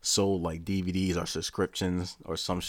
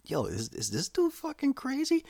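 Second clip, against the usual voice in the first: laughing. Real, not acted. Laughing at his speeches.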